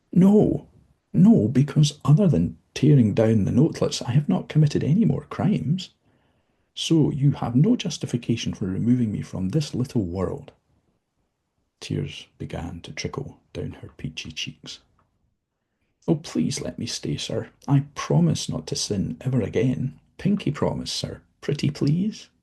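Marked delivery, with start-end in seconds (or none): 0.1-10.5 much higher, louder frantic denial; desperate protest. Acted. Dozzie frantically protests her banishment to the visitor. 16.1-22.3 higher, tearful begging; pleading. Acted. Tearful Dozzie begs the visitor to let her stay.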